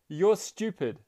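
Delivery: high, loud taunt thrown back; echoed angry shout. A narrator's reading. Mountain replying to the angry boy, echoed shout. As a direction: echo the insult as a shout. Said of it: "To which the voice replied".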